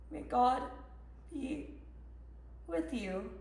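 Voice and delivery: hushed, halting blessing; stunned reading aloud. Acted. Mother reading the end of the shooting alert, stunned. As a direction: let each piece drop away softly.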